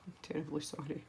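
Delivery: laughing apology. Real, not acted. Laughing apology for pencil habit.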